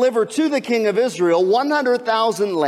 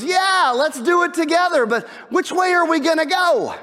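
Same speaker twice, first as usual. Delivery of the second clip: eager king; 6 semitones higher than usual. Acted. King Joram thrilled at Jehoshaphat's help, eager shout. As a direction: jump in with eager energy.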